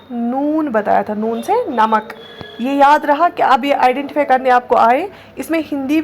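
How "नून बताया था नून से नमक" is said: slow, deliberate naming of नून and नमक; slow teacher recitation. Shown as a demonstration. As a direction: spell it out slowly for kids. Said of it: "और मैंने क्या बताया था आपको?".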